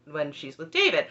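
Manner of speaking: normal talking voice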